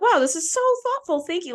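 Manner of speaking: high-pitched, gushing retold gratitude; touched thanks. Thanking a guy who brought flowers from his garden, touched. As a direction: gush a recalled thank-you, starting high. Retells thanking a kind friend.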